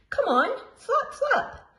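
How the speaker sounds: high, laughing bird squawk; squawking instructor. A narrator's reading. Gull instructor urging chicks to flap, high squawk. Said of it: "squawked the flying instructor".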